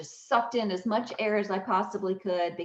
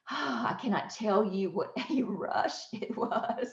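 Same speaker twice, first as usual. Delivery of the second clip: emotional laugh; 4 dB quieter than usual. Real, not acted. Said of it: "I get emotional just thinking about it".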